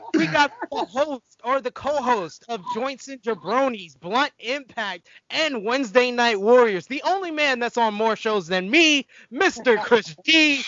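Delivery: lightly hyped show announcer intro; announcer introduction. Real, not acted. Host announces a co-host.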